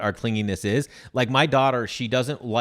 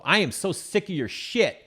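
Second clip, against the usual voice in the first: mock fed-up; 8 semitones higher than usual. Running joke, mock row with daughter.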